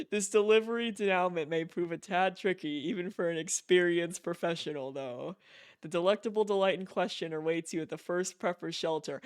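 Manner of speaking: lightly voiced, stately letter-writer; formal letter reading. Player reading Higgs's email aloud, mildly formal voice. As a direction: read it like a mildly pompous gentleman's letter.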